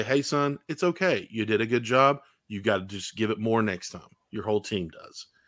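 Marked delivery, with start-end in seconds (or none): none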